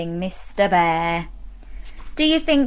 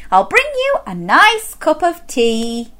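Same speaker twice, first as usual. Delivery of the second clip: higher, lilting offer; soothing Missus Bear; 5 semitones higher than usual. Acted. Missus Bear offering tea to tired husband, high lilt. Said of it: "said Missus Bear".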